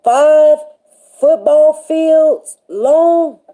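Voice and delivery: slow, drawn-out disbelief; marveling aloud at the size of the ark; amazed. Retold or imitated. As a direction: stretch it out in awe. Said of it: "I'ma be all in my mind today going".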